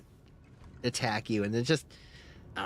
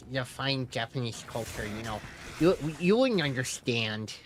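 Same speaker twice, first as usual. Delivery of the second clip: cocky quick mod swagger. Pretend. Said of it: "a Reddit mod voice".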